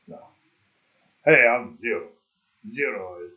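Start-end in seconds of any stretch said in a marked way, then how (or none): 1.2-3.3 Spanish accent attempt. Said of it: "putting on, like, a weird".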